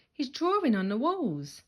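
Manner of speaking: high, loud telltale whine; Henry telling on his brother; tattling. A narrator's reading. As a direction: dob him in gleefully.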